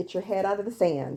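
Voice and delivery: normal talking voice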